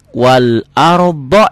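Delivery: slow "arda" with heavy, rounded o ending; rounded ardho. Shown as a demonstration. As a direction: thicken the d, round the vowel in "arda". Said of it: "jangan wal arda".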